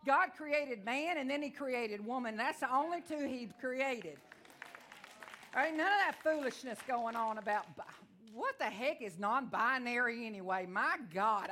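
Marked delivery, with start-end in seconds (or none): 0.1-1.2 emphatic slow proclamation. Acted. Preaching emphatic point. 8.3-11.5 laughing. Real, not acted. Laughs at survey options.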